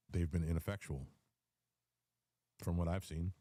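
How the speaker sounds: ordinary delivery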